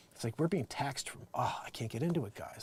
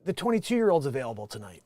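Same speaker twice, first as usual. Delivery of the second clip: imagined client; 6 semitones higher, 7 dB louder than usual. Retold or imitated. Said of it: "You're like".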